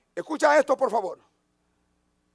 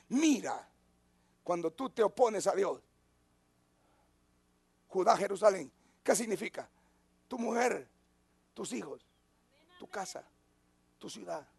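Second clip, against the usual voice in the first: fading to a hush; 4 semitones lower, 9 dB quieter than usual. Acted. Intimate warning to the congregation.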